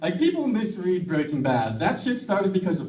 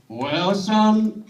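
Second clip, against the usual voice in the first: Texan parent; 3 semitones higher than usual. Retold or imitated. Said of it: "my parents are Texan".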